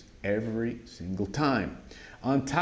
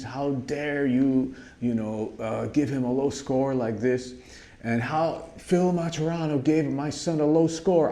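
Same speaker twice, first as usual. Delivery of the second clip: mild mock yell, pitched higher; retold screaming mother; 4 semitones higher than usual. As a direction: imitate the angry mother without real shouting. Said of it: "she starts screaming at him".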